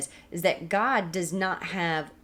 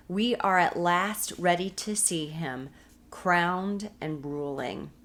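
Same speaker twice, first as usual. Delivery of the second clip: slow book reading. Shown as a demonstration. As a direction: read the quote slowly and deliberately. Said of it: "as we might not have been".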